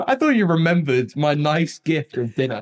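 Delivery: laughing while speaking. Real, not acted. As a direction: giggle through the words. Laughing through mock outrage.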